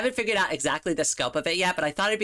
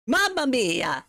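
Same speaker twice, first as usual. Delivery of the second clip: poor Mario impression; 7 semitones higher, slower than usual. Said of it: "I'm doing a really poor job here".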